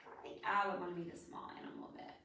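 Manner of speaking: fast whispered aside; rushed hushed confession; quick whisper. Real, not acted. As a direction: murmur your own answer quickly. Quick whispered personal answer.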